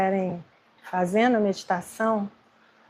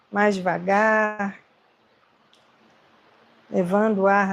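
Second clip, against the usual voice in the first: unhurried meditation guidance with long pauses; guided meditation. Acted. Meditation teacher helping agitated students breathe, guided meditation. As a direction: guide them gently, leaving space between phrases.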